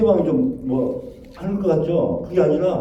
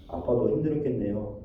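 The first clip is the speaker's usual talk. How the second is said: understanding; 5 semitones lower, 7 dB quieter than usual. Retold or imitated. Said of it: "그게 먼저 이야기가 나온다니까요".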